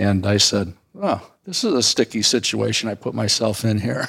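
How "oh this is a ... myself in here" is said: ordinary talk, nothing marked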